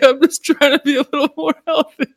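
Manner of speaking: high, fast whine through laughter; giggling mock plea; laughing protest. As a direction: plead innocence while cracking up.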